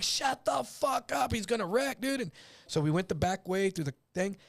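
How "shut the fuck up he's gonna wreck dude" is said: tense snap. Retold or imitated. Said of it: "I'm like".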